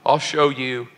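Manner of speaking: low, grudging dare; with an attitude. Retold or imitated. Young widower daring God on the tee, with attitude. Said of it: "sort of with an attitude".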